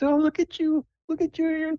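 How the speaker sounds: put-on very high falsetto, fussing over her child; doting mom. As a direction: gush like a proud mother. Mom admires her daughter.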